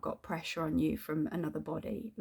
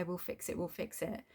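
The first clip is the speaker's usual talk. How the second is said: much softer, throwaway mumble of a promise; mock empty promise; 9 dB quieter than usual. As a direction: toss it off like he never means it. Mocking landlord's empty promise.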